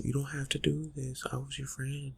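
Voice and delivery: high, soft mock pleading; mimicking victims' pleas. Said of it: "it's always the same".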